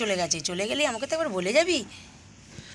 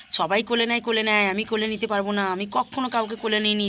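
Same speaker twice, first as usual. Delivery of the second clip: irritated refusal; faster than usual. Acted. Refusing child, throws words back.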